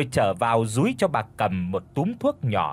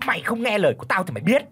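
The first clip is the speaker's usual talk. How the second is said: angry roar; 7 semitones higher, much faster than usual. Acted. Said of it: "gầm lên".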